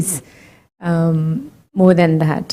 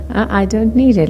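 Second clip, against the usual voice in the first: gently; 3 semitones higher than usual. Shown as a demonstration. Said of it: "very sweetly, very gently, just say".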